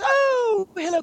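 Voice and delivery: very high, queenly "oh, hello"; exaggerated grande dame. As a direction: greet like a hammed-up Queen of England. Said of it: "she doesn't talk like that".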